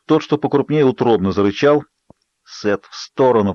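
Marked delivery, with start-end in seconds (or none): none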